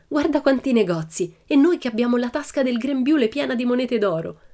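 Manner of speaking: put-on high, lively girl's voice; delighted little Annika. A narrator's reading. Annika to her friends outside the shops, delighted and high.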